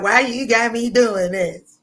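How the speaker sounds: hammed-up tearful wail; loud, whiny mock crying protest; crying while fighting. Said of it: "I'll be beating your ass crying, talking about".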